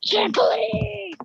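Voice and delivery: excited shout. Real, not acted. Jumping, shouting to friends.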